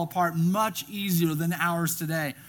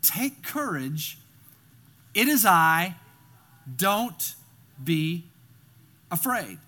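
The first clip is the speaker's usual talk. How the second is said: slow reassurance; 2 semitones lower, slower than usual. Acted. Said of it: "I want to look at those eight words again".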